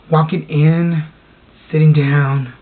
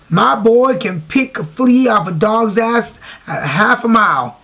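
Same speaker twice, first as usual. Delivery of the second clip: lightly voiced old Southern guy, higher and drawn out; bragging Southern guy; 5 semitones higher than usual. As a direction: brag slowly like an old Southern father. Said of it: "I miss the old Southern guy".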